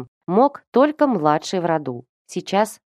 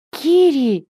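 the name bursts out much higher; voice breaking high; 8 semitones higher, 3 dB louder than usual. A narrator's reading. Brother pleading with his sister, voice breaking high. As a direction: cry the name, voice cracking up high. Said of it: "Голос опять сорвался на высокие ноты".

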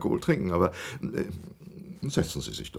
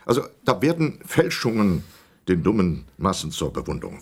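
jab at the museum with scorn; excited rant. Acted. Old man rants about the Louvre.

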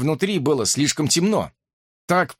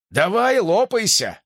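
higher, loud call back; loud retort; 7 semitones higher than usual. A narrator's reading. Answering the brother loudly so Boo hears. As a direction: make sure Boo hears it. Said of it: "громко отозвался я".

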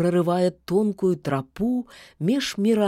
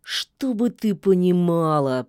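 through teeth. Acted. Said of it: "процедил волк".

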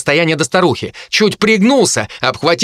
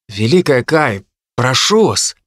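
conciliatory plea. A narrator's reading. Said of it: "примирительно сказал Генри".

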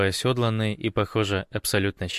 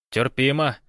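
bright, louder exclamation; exclaimed; 5 semitones higher, 4 dB louder than usual. Acted. Kostya, testing the lake water, exclaims happily. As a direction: call it out, pleasantly surprised. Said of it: "воскликнул он".

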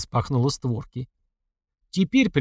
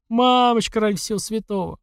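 desperate plea; 8 semitones higher than usual. A narrator's reading. Terrified mother begging.

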